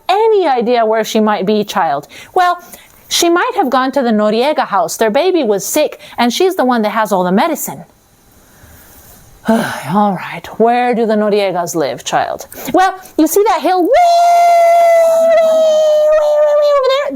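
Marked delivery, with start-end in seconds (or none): 2.3-7.8 put-on little girl voice. 12.7-17.1 put-on high child voice stretching way, way, way; little girl calling out way, way. Little girl pointing Death to a far hill, stretched high calls.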